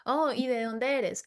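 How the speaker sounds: slow, drawn-out interested question; lightly voiced stranger asking slowly; slow curious asker. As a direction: stretch the "Oh" like you're genuinely intrigued. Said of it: "en Francia preguntan de que".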